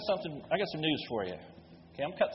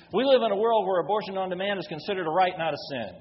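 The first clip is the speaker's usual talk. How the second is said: fired up; 2 semitones higher, 3 dB louder than usual. Real, not acted. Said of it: "I'm getting fired up".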